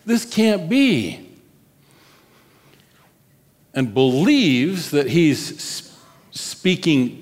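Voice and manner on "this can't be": acted protest, higher and drawn out; half-screamed objection, pitch lifted; mild mock scream. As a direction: plead in dramatized refusal without really shouting. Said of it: "his flesh is screaming out".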